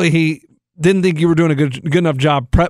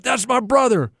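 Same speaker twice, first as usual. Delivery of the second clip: proud, higher-pitched exclamation; higher, proud cry without extra volume; excited; 5 semitones higher than usual. Retold or imitated. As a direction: retell an excited sideline cheer. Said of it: "I was excited".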